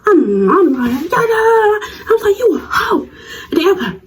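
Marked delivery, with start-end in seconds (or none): 1.1-3.1 high giggly taunt; laughing insult. Retold or imitated. Calling out the rival before classmates, laughing. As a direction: fling the insult while laughing.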